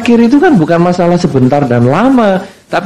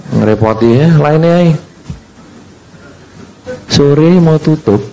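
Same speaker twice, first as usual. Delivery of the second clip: grumbling Jogja dismissal. Retold or imitated. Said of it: "Kalau ada orang ngemis pagi".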